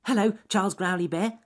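high, loud rabbit greeting; squeaky storybook rabbit hello; Ernest Fluffy Rabbit. A narrator's reading. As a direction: pipe up cheerily as a little bunny. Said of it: "said Ernest Fluffy Rabbit".

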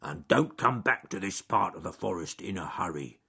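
mild bear growl; growled warning. Acted. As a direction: warn him off with a light growl. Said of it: "he growled".

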